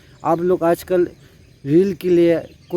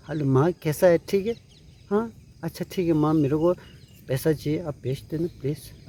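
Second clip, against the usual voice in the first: softer, sugary son asking for money; sweet-talking mom; 2 semitones lower, 7 dB quieter than usual. Retold or imitated. Son sweetly phones mother to ask for money, coaxing and softer. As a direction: coax her gently for cash, softly. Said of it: "माँ प्यार से बोलेगा".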